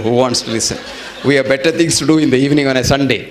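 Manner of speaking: fast, laughing through the words; laughing kids. Retold or imitated. Children mocking the lecture invitation, fast and laughing. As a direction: giggle it out quickly like cheeky children.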